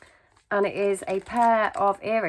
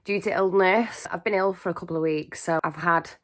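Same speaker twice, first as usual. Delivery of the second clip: out of breath; 2 semitones lower than usual. Real, not acted. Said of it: "short of breath and really wheezy".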